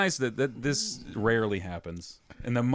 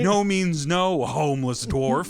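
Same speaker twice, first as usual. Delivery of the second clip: slow stern mock; 4 semitones higher, 4 dB louder, slower than usual. Mocking stern refusal.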